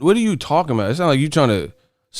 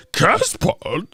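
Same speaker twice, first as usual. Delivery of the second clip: high, slow silly voice; exaggerated mimicry, pitched up; mocking imitation; 7 semitones higher than usual. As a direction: drag out the garbled word incredulously. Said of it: "That motherfucker said".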